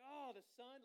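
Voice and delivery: a high, loud exaggerated whine; hammed-up Jonah complaining about the heat; mock groan.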